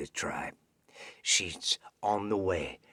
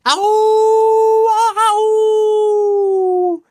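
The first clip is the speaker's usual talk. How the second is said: wolf howl; 17 dB louder than usual. Acted. Wolf calls out to his pack.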